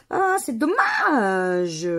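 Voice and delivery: loud drawn-out letdown over a losing ticket; disappointed. Real, not acted. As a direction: stretch out the ah in real disappointment.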